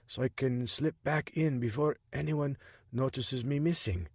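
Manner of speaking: lightly voiced Jabari, measured and cautious; a hint of an informant taking a risk.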